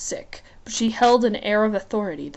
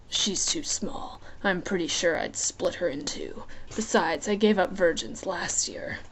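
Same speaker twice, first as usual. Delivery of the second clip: amused, lazy menace, half whispered; lightly voiced Hades; 2 semitones lower, 6 dB quieter than usual.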